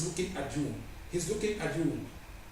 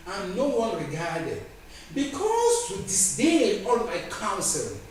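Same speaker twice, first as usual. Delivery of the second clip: slow, measured Bible reading; scripture declamation. Acted. Preacher reading God's rebuke to the unrepentant, declaimed. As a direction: stretch out each phrase as a solemn charge.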